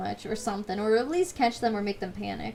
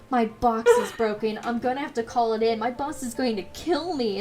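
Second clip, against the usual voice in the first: fake panic; 3 dB louder than usual. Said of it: "acting like I'm sweating".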